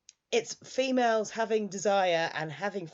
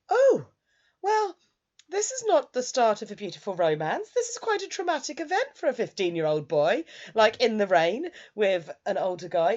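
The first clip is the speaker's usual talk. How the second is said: outraged protest; 5 semitones higher, 5 dB louder than usual. Real, not acted. Indignant at rape scene.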